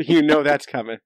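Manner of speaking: amused, laughing aside. Real, not acted. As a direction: chuckle it out knowingly. Laughing at the nap joke.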